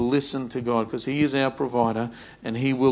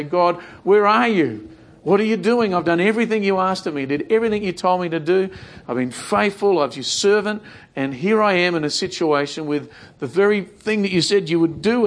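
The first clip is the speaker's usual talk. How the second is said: raised, pleading cry to God; pleading complaint; 3 semitones higher than usual. Acted. Preacher voicing a desperate believer, raised pleading.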